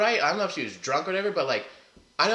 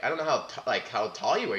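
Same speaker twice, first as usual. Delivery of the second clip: put-on light Jamaican accent, casual; easy Jamaican lilt; 3 dB quieter than usual. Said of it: "like, in a Jamaican accent".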